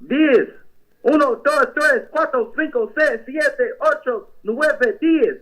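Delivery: put-on Mexican accent, lightly done. Prank caller Julio asks a pastor about mayor, Mexican accent. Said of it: "count to ten".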